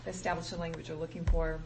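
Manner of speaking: talking through a choke in the throat; choking. Real, not acted. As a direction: speak while choking a little. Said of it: "I'm choking".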